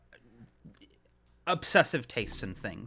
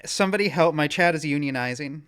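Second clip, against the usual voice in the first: mock panic; 7 dB louder than usual. Mock panic about chat.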